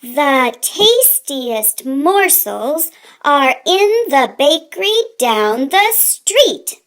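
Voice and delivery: slow, careful sounding out like a new reader; sounding out words. Acted. Little mice sounding out a poster, slow and careful. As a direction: spell it out word by word. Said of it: "sounded out the words".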